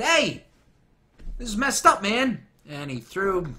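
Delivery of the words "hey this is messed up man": mock Panthro complaint. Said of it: "went back to Mumm-Ra and said".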